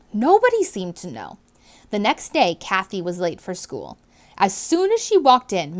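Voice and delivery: clear, expressive read-aloud to a class; storybook reading voice; reading to children. A narrator's reading. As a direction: read it out like a teacher sharing a book. Teacher narrating chapter to class.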